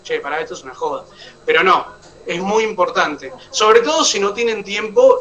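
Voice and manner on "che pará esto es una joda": a quick, much softer, scoffing throwaway; dismissive aside. Retold or imitated. Student mocking the vocal exercise as a joke, fast soft scoff. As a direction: brush it off under your breath, fast. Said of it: "y vos decís".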